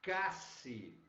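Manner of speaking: "casi" with a hard K sound; teaching the Spanish spelling. Shown as a demonstration. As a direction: say "casi" crisp, with a K. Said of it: "que em espanhol é".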